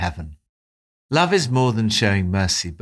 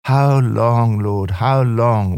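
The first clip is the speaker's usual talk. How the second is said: louder, pleading cry of How long; 4 dB louder, slower than usual. Retold or imitated. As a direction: call out to God like David in a battle. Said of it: "we cry out like David".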